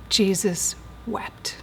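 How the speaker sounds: hushed whisper. Acted. Preacher to congregation, reciting the verse in a reverent whisper.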